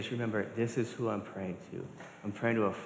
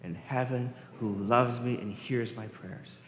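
model prayer. Shown as a demonstration.

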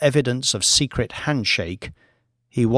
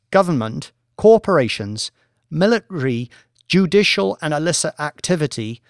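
a lightly voiced academic lecturer, measured and assured; professor presenting; 4 semitones higher than usual. Professor lecturing the traders, calm and assured. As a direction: present the research to the bored bankers.

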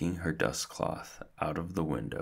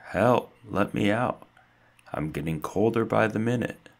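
raised, higher plea, fading from the first cry; calling for help; 6 semitones higher, 6 dB louder than usual. A narrator's reading. Stuart still locked in the cold fridge, calling out. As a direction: keep shouting to be let out. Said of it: "he called".

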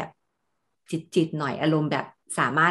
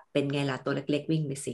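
a light imitation of a cold villain taunting little people; condescending villain; 2 semitones lower, 7 dB quieter than usual. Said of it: "นั่งบัลลังก์สูงๆ แล้วมองลงมาต่ำๆ".

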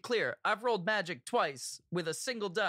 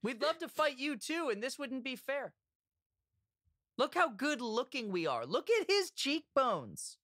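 calling out; 4 semitones higher than usual. Acted. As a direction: call across to an unseen stranger. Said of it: "yells out into the mist".

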